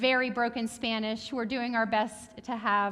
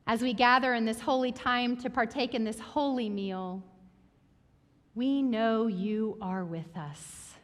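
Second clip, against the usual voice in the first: prayer. Acted. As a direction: pray gently over the people. Leads the congregation in prayer.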